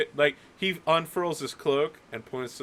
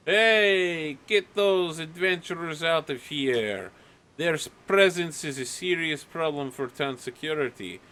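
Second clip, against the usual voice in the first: lightly voiced villager's complaint, raised pitch; angry mob; 3 semitones higher than usual. Villagers swarm Nadia's house, mildly indignant mob. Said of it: "turned into a mob".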